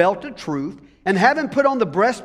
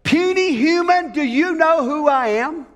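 booming, higher demon voice; loud devil voice; 6 semitones higher than usual. Retold or imitated. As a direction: roar it like a monster. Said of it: "In a loud voice".

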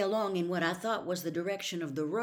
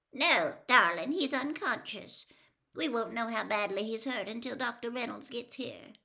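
higher, strained comfort; worried aunt; 6 semitones higher than usual. A narrator's reading. Aunt tells the girl her brother is unconscious, strained and high. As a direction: hold back the worry while soothing. Aunt reassures frightened child.

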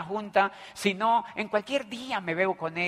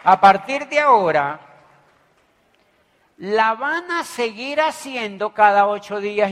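much louder, punchy proclamation; emphatic declaration; 2 semitones higher, 10 dB louder than usual. Shown as a demonstration. Speaker repeating his reply to the crowd, loud and emphatic. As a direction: hammer it home to the room.

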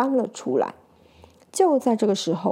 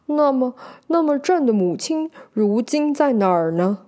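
tearful; 3 semitones higher than usual. Acted. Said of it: "惊讶不已".

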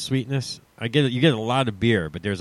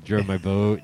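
put-on South Jersey accent; 3 semitones lower than usual. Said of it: "the southern New Jersey accent".

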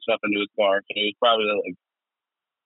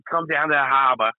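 fake Boston accent; 3 semitones higher than usual. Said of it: "fake Boston accent".

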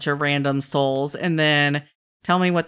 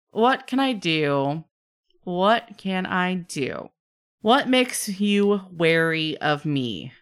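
exasperated; slower than usual. Acted. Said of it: "rolls his eyes again and huffs".

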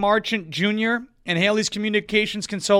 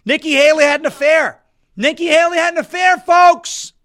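higher and louder, a proclaiming bellow; loud announcement; 7 semitones higher, 8 dB louder than usual. Real, not acted. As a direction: trumpet the news to the audience. Announcing a scandal to viewers.

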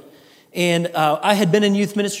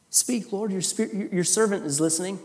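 soft, humble whispered prayer; hushed prayer; 7 dB quieter than usual. Shown as a demonstration. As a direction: pray it softly and humbly. Congregation's prayer modeled.

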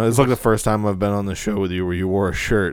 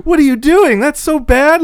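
much higher, louder, cooing tone; sweet baby talk; 9 dB louder than usual. Retold or imitated. Owner scolding the dog in a high sweet voice. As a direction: scold the dog in a happy sing-song. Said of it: "say Houdini in the same way you say Pierre".

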